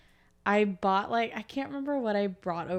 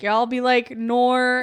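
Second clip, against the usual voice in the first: mock Australian accent; 3 semitones higher, 8 dB louder, slower than usual. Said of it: "make fun of Australian people saying 'Nor.'".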